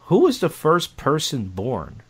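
slow pondering. Retold or imitated. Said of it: "I go".

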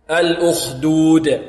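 slow "الأخدود" with a bouncing final د; qalqala stop. Shown as a demonstration. Teacher modelling the pause, bounced د in "الأخدود". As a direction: draw out "الأخدود" and release the د with an echo. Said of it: "الوقف على الدال هنا قلقلة".

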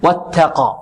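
ت in واتقى light with a puff of air; whispered-letter ta. Shown as a demonstration. Teacher models the letter for students, aspirated ta. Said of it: "التاء هنا مهموسة".

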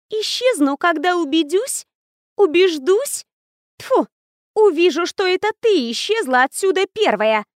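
high, raging ghost voice; furious ghost. Acted. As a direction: spit it out in a rage. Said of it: "Окончательно разъярилась Лора".

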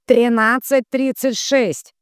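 loud, slow, high repeat; forceful drawn-out relay call; relaying the number. A narrator's reading. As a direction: belt out each figure slowly. Tatiana repeats it to the medium.

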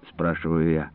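ordinary delivery, nothing marked

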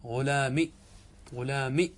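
غلامي with the final ي dropped, ending on a short kasra; example form. Shown as a demonstration. Teacher modelling غلامي without its yaa for students. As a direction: clip غلامي to end on a short i. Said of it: "ماذا تقول؟".

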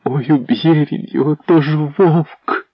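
wife begging the prince in fear; terrified plea. A narrator's reading. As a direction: plead in terror.

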